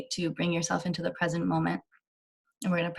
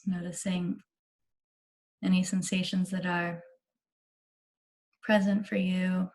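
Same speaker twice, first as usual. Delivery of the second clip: unhurried meditation guide with long pauses; measured, spacious meditation delivery; guided meditation. Real, not acted. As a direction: ease them gently into relaxation, leaving space between phrases.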